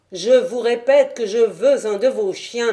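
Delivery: s'écrier plus fort. Acted. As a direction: insister d'une voix forte. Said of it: "m'écriai-je". (le narrateur s'écrie pour se faire entendre)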